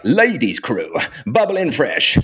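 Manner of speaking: garage radio MC hype voice; drawn-out, swooping MC shout-out. Shown as a demonstration. Demonstrating the nineties garage radio voice, MC hype. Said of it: "sort of U K garage voice".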